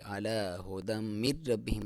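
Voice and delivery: من ربہم read quickly with a light ra; the mistaken way, ra not stressed; wrong reading. Shown as a demonstration. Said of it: "نہیں پڑھیں گے".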